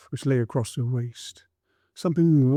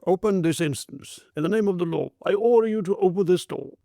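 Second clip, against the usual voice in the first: stern order; 6 semitones higher than usual. A narrator's reading. Policeman orders entry by law.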